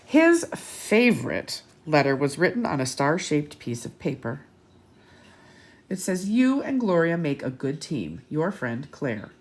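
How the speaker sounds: put-on lively read-aloud to children; bright picture-book narration; storybook reading. A narrator's reading.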